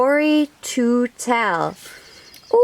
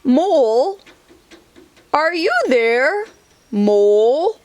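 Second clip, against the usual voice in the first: calling out; 3 semitones higher than usual. Acted. Bear calls for Mole.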